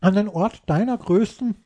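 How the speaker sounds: talking through a mouthful of pasta; words muffled by a full mouth; chewing while talking. Real, not acted. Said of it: "mit vollem Mund zu essen".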